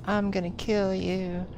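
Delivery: lightly gruff, slow threat; a slow, mild gruff villain line. Retold or imitated. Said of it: "in his gruff voice".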